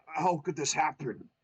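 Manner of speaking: lamenting. Acted. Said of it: "the plumber lamented".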